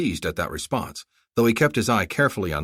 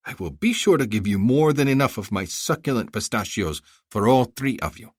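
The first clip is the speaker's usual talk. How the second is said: high, effusive haggling vendor; a flattering bazaar seller pitching; eager merchant; 3 semitones higher, 3 dB louder than usual. Acted.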